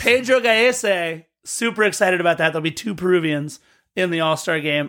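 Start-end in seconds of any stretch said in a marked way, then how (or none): 0.0-1.2 announcer name call. Acted.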